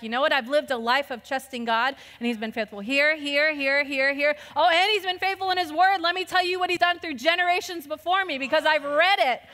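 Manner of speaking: building trust. Retold or imitated. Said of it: "you're like".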